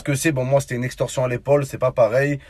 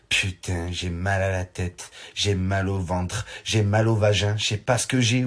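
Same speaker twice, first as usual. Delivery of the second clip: put-on whiny girlfriend; 6 semitones lower than usual. Imitates girlfriend waking up.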